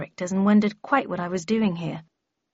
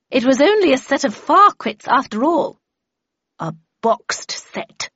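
cold reply; 5 semitones higher, 5 dB louder than usual. A narrator's reading. Red Queen corrects Havisham about her bargain, coldly. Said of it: "replied the Red Queen coldly".

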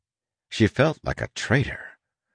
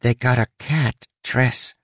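grumbling; 5 semitones higher than usual. Acted. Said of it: "Huck grumbled".

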